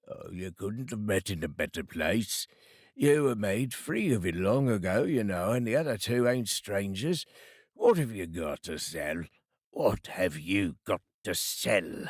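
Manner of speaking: a hint of a greedy old fence; old Joe voice. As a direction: play the sly old rag-and-bone man.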